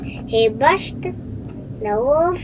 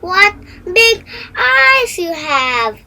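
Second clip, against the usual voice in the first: put-on higher, louder amazed child; a girl staring at the disguised wolf; wide-eyed girl; 7 semitones higher, 6 dB louder than usual. A narrator's reading. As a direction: gasp it out in wonder. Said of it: "said Little Red Riding Hood".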